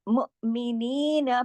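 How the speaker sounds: slow मुअमिनीन with the long ee held; recitation. Shown as a demonstration. Teacher showing madd to students, slow chant. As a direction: draw out the ya. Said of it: "पूरा या का हक अदा करेंगे".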